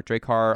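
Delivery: Drake Har said as drake-har, falling on har; Drake Har pronunciation. Shown as a demonstration. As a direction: say Drake Har as two words, drake then har. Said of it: "pronounced Drake Har".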